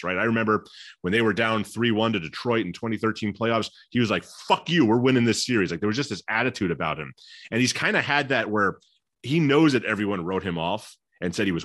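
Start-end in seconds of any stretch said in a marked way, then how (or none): 4.2-5.7 louder, higher defiant quote; retold defiance. Player defying a three-one playoff deficit, defiant. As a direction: imitate a teammate's defiant outburst. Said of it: "has been his defiance".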